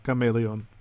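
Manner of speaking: Chameleon said the Dutch way, "ka-MAY-lee-on". Shown as a demonstration. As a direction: say Chameleon in Dutch, hard K and full final "on". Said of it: "how it's in Dutch".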